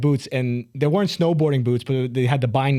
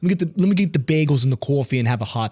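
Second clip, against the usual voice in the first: put-on New York accent; 3 semitones higher than usual. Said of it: "My extreme accent".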